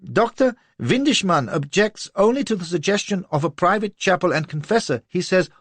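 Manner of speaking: high, tearful, aggrieved pleading; near tears. A narrator's reading. Little man on the verge of tears before Lola, high and tearful. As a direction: whine to her close to crying. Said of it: "on the verge of tears".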